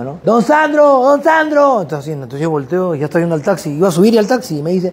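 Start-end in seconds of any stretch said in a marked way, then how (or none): 0.2-1.8 high calling shout of a name from behind; eager high call, Don Sandro. Retold or imitated. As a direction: call after him as he gets in the taxi. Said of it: "siento que gritan atrás mío".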